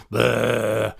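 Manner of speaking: tuneless held vocal drone; off-key sung bleat. Retold or imitated. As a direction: hold out an awful choir note, mocking yourself. Imitates own off-key choir note.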